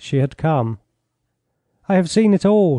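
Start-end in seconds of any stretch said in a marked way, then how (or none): 1.9-2.8 excited cry. A narrator's reading. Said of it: "she cried".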